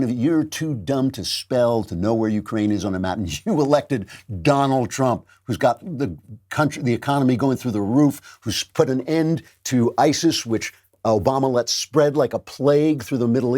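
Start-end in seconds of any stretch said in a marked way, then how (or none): none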